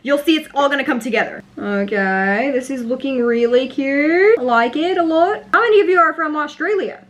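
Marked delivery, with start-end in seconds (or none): 1.6-7.0 put-on playful Australian accent, questioning lilt; attempted Australian accent. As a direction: have a go at sounding Australian. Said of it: "if that was a good accent".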